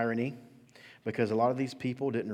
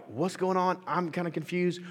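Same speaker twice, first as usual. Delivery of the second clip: confused bystanders; 8 semitones higher than usual. Retold or imitated. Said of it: "some people are like".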